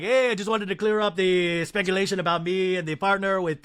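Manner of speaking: a half-hearted Mauricio take; weak imitation of Mauricio; bad Mauricio impression. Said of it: "this is not a good Mauricio".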